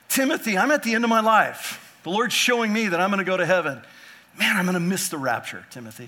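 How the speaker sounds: a hint of an excited old apostle; Paul to Timothy. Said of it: "He's like".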